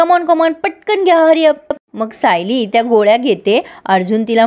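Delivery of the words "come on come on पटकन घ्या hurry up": playful urging. Retold or imitated. Arjun urging Sayli to take pills.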